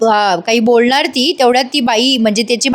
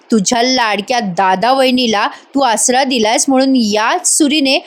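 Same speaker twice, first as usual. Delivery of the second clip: menacing threat. Acted. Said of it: "जोरात मंजुलिकेसारखी किंचाळते".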